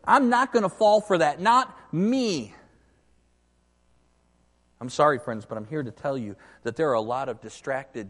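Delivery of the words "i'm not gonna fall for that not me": louder, cocky listener voice; imitating a confident listener, loud; mock skeptic. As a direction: play the doubter, sure of himself. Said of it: "some of you might say to me".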